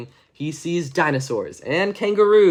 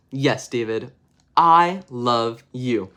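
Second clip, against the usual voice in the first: tender mom; 3 semitones lower, much slower than usual. Acted. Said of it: "his mom says".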